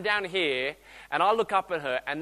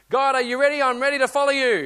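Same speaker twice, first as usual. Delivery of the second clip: eager call; 6 semitones higher, 7 dB louder than usual. Retold or imitated. Believer calling eagerly to God.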